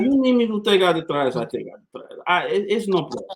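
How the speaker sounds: imitating a Puerto Rican sailor's accent. Sailor imitates a Puerto Rican shipmate, Puerto Rican accent. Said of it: "I gotta say it in his accent".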